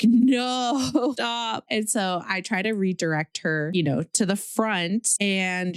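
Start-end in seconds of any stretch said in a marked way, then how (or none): 0.0-1.7 sharp startled no, then laughing stop; alarmed no. Retold or imitated. Mom yelling at her toddler to stop throwing up. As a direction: cry out to stop the vomiting. Daughter vomiting on baby.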